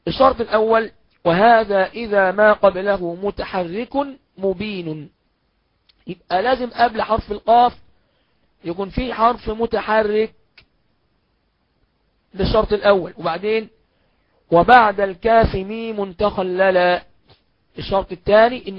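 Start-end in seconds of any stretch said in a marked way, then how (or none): 1.2-5.1 poem recitation. Acted. 14.5-17.0 slow, chanted verse; poem recitation. Acted.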